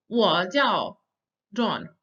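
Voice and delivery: "我叫 John" word by word, "叫" falling; pronunciation demo. Shown as a demonstration. Teacher models introducing oneself, "我叫 John" deliberately. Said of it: "we can also do this".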